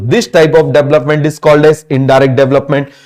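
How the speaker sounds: slow, word-by-word note dictation; slow classroom dictation. Shown as a demonstration. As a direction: spell it out slowly so students can write. Dictating a definition.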